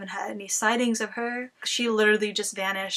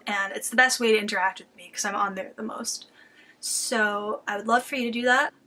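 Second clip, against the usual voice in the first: out of breath. Real, not acted. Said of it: "I don't know why I'm so out of breath today".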